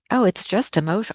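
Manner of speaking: mock-dismissive, quick brush-off; sarcastic. Voicing people who dismiss emotional abuse, sarcastic. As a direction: toss it off with mild sarcasm. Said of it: "being sarcastic".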